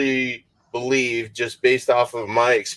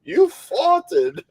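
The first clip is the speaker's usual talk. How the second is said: put-on English accent, pitched high; 9 semitones higher than usual. Repeating what the app said, mock English accent. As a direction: mimic an English accent, higher than usual. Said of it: "in an English accent, like your accent".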